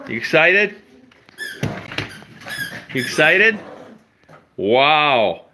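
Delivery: high, eager questions to a dog; sing-song dog praise; excited pet talk. Real, not acted. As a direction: hype the dog up.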